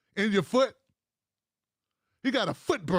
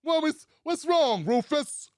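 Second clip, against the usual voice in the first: higher, lightly baffled boss voice; mock old-school politician; 4 semitones higher than usual. Old-school boss asking his servant what's wrong, mock puzzled. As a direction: act innocently puzzled at the objection. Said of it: "That's how he sounds".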